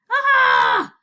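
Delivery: very loud, high cry of frustration; exasperated scream. Acted. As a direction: let out a frustrated yell. Furious outburst at useless parchment.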